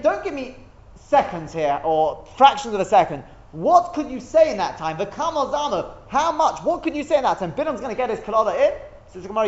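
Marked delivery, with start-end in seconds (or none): 0.0-7.5 emphatic, higher-pitched rhetorical questioning; insistent demand. Acted. Teacher voicing the Gemara rejecting fractions of seconds, insistent demand. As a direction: push impatiently for a concrete answer.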